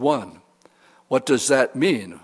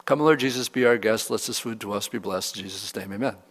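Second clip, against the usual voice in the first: rattled-off rote prayer; 3 semitones lower, 4 dB quieter, faster than usual. Shown as a demonstration. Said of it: "it's a vain, repetitious prayer".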